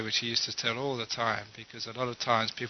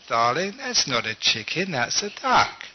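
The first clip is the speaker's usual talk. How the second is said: wife correcting husband. Acted.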